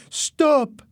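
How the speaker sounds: high, loud cry to stop; shouting. A narrator's reading. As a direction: cry out urgently. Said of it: "someone shouted".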